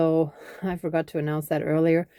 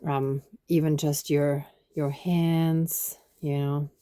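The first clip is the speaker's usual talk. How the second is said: guided meditation. Acted. Leads a body brushing ritual.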